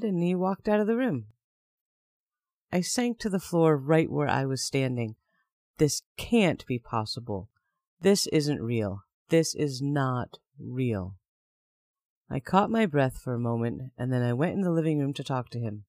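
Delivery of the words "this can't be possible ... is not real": stunned disbelief. Retold or imitated. Shocked disbelief, inner thought.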